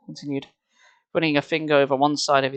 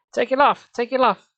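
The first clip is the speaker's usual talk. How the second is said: high, loud frantic scream; high panicked shout; 9 semitones higher, 5 dB louder than usual. Acted. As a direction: scream it out, losing control. Tearing frantically at her face.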